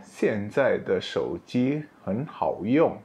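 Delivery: slow, careful Mandarin example; slow classroom demo; slow model sentence. Shown as a demonstration. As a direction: read it slowly for learners.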